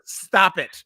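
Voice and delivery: slow laughing stop it. Real, not acted. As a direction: laugh through the protest. Laughing protest.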